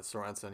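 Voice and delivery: Sorensen said softly as so-REN-sen; quiet Sorensen with a strong REN; habitual mispronunciation. Retold or imitated. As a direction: casually stress the middle of Sorensen. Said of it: "said it to his face like that".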